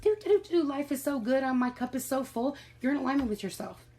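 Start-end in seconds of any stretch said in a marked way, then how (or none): 0.0-2.6 high, bouncy hum-along of someone living the good life; breezy, gleeful and carefree; carefree happy singsong. Pretend. Mocking a blissed-out person with a high happy singsong. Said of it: "and you're just".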